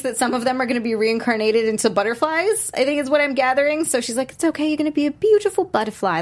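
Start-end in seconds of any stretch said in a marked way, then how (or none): 4.3-6.2 a bad Australian accent pitched up high; mock Australian accent, played for laughs; lightly put-on Australian accent as a killer girl; horrible Australian accent. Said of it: "That was a horrible accent".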